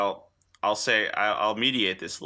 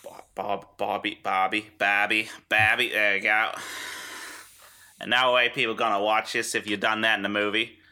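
a light, badly faked Australian accent; hint of Aussie twang, deliberately bad; awful Australian accent. Co-host mocking the Aussie reviewer in a bad Australian accent. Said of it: "I'll do an awful Australian accent".

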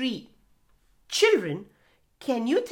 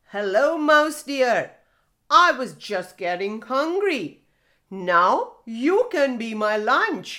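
a hint of a hungry tiger, louder; 5 dB louder than usual. Tiger greets the mouse deer as lunch, louder. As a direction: voice the tiger eyeing his lunch. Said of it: "There was a tiger".

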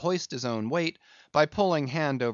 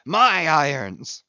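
louder, slow exulting shout of my irons; exultant cry; 2 semitones higher, 6 dB louder, much slower than usual. Acted. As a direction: crow over his own harpoons. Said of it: "cried Ahab exultingly".

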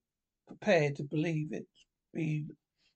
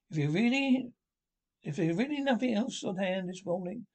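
coaxing Rat; 4 semitones higher than usual. Acted. Rat proposes a day out.

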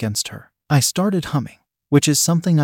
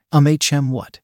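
demanding. Acted. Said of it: "she demanded".

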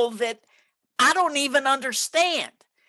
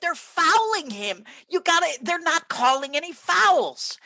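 higher-pitched protest, only half yelled; mild mock yell; 3 semitones higher than usual. Parent arguing with the ref over fouls, mild mock yell. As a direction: imitate a parent complaining to the ref. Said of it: "I'm yelling at the ref".

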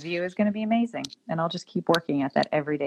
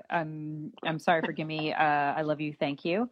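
softer, half-hearted run through a mantra; phoned-in recital; 3 dB quieter than usual. Retold or imitated. Retelling how a doctor said the forgiveness mantra some days, phoned in. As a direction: imitate someone going through the motions, quieter. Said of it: "did just kinda phone it in".

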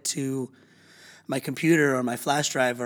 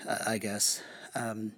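whispering; 7 dB quieter than usual. Real, not acted. Trailing aside.

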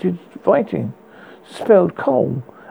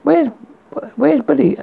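yelled; 7 semitones higher than usual. Acted. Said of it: "I yelled after him".

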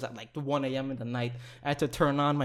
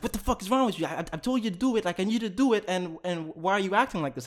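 mild mock tirade in a raised pitch; retold yelling; 5 semitones higher, faster than usual. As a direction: imitate her telling you off without really shouting. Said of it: "She starts yelling at me".

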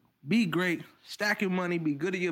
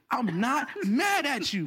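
laughing; 4 semitones higher, slower than usual. Real, not acted. Laughing mid-sentence.

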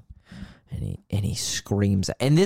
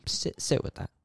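whispered instruction; 5 semitones higher, 6 dB quieter than usual. Retold or imitated. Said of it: "He's like".

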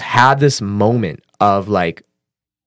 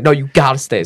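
higher, louder insistence; retold firm urging, pitch raised; adamant; 5 semitones higher, 3 dB louder than usual. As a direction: brush off the refusal and insist. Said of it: "She's, like, so adamant".

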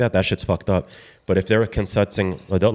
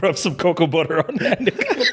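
laughing while talking; 8 semitones higher than usual. Real, not acted. Joking, laughter right before.

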